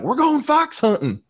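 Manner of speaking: high, slow hammed-up posh English; mock English accent. To a kid from the canister, mock English hunter accent. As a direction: ham up a snooty English hunter. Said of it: "They don't have that accent".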